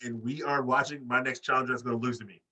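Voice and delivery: mock haughty interruption; lightly voiced diva putting someone in his place; Britt. Wrestler telling off the announcer, lightly imitated snootiness. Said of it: "Britt's gonna be like".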